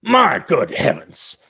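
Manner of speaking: slow, hammed-up British outrage; drawn-out mock British exclamation; mock British accent. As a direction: put on a snooty British voice. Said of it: "You give me that asshole Brit".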